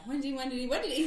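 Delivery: stuck repeating it, rising with each go; David Schwimmer. Shown as a demonstration. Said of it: "the way that David Schwimmer chooses to do that".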